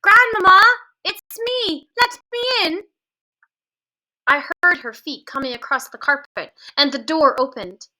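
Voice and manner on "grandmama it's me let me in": higher, louder urgent call; shouting. A narrator's reading. Boy shouting through the door to be let in. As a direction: plead to be let in fast.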